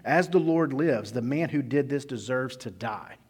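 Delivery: slow, loud, vowing declaration; furious oath. Retold or imitated. David to Nathan, condemning the rich man in a loud vow. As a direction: swear it like a furious king. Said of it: "David was infuriated with the man".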